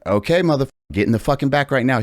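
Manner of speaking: mock furious scolding of a line cutter; retold telling-off. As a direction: boss the line cutter to the back. Ordering him back.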